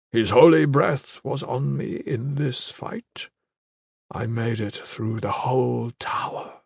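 slow, weak proud boast; dying warrior. Acted. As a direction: brag through failing breath. Dying brother boasts weakly.

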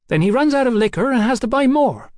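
high-voiced cheeky London girl. A narrator's reading. Hetty breaks into his speech.

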